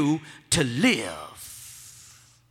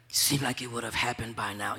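much lower and softer, tired doubting voice; weary doubt; 10 semitones lower, 11 dB quieter than usual. Acted. Preacher voicing a weary believer, low and drained.

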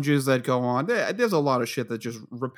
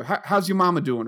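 put-on Southern accent; 3 semitones higher, 3 dB louder than usual. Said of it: "Super Southern".

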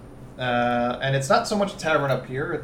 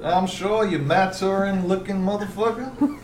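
higher southern voice; southern accent; 4 semitones higher than usual. Acted. Magistrate insulting a cheeky visitor, southern accent. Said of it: "Stop doing the southern accent".

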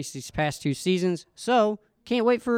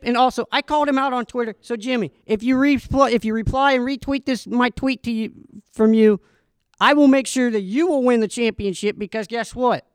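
excited; 5 semitones higher, 4 dB louder than usual. Real, not acted. Excited call-out to driver.

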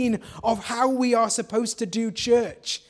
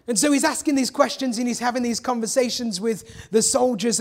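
ordinary talk

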